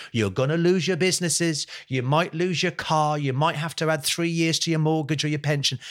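rally the nation like a prime minister, building as you go; imagined leader's speech. Pretend. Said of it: "We need our leader to stand there and go".

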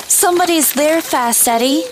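high, frightened alert; whisper-shout in alarm; scared. Acted. Girl hears someone in woods.

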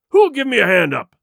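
loud, angry pirate roar; booming demand, high at the start and falling. A narrator's reading. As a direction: roar it at everyone around. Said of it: "he roared".

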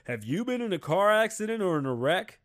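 advert announcer. Retold or imitated. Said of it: "it'd be like".

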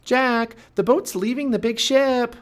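high, loud alarmed call; urgent alarm. Acted. Annie alerts Jack to the leaving boat, urgent alarm. Annie warns of approaching pirates.

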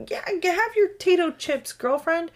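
high-pitched, indulgent mom voice; playful cheering-on. Retold or imitated. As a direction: humor the kid in a high voice. Mother playing along with excited child.

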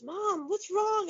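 put-on high, slow child's voice; little daughter. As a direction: play the worried kid woken up. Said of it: "And she goes".

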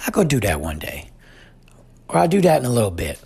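lightly voiced little boy, barely shifted; a hint of the toddler's matter-of-fact promise; imitating toddler son. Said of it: "that's how he sounds".

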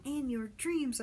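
shouted comeback; shouting back. A narrator's reading. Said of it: "I shouted back".

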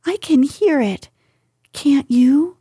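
high, nervous whisperish question; anxious. Acted. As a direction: ask with rising worry. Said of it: "said Piglet anxiously".

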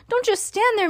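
high-pitched frantic demand; mock scream. A narrator's reading. Wife screams at her husband to act, high mock scream. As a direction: demand action, pitch way up without much volume. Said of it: "screamed at Mister Gloop".

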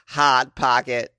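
slow, drawn-out ad tagline; commercial slogan. Acted. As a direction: stretch it like the commercial. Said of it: "like they say on the commercial".

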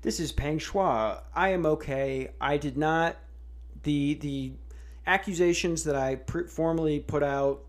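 mock stuttering statement; stammering forced statement. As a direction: stumble through a hostage script. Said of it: "didn't say it like a stuttering crackhead".

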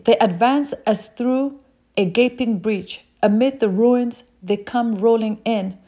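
slowed, careful scripture reading. Real, not acted. Preacher rereading Job to the congregation, slowed down. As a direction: take the verse again at an unhurried pace. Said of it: "I'm sorry, I'm reading so fast".

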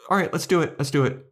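squeaky keen insistence; bubbly bride-to-be pushing ahead; eager Anya. Retold or imitated. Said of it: "And Anya's like".

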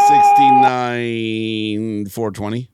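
slow, loud, deliberate delivery; deadpan joke answer. Real, not acted. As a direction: announce it with mock pride. Joke answer to math question.

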